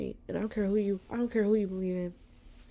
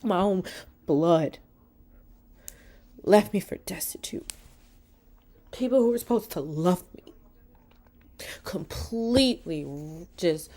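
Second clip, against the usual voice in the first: louder, tearful telling of betrayal; 4 dB louder than usual. Real, not acted. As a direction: push through the hurt while crying. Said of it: "I didn't mean to cry".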